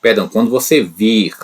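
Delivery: vir said as the fix, firm; corrected form. Shown as a demonstration. Teacher correcting himself to students, firm. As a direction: quando você vir, with vir set right. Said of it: "já tô falando errado".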